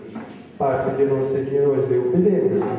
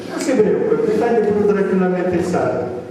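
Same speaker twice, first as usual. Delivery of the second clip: retold professor's reassurance; 7 semitones higher, 6 dB louder than usual. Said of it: "gli risponde un professore".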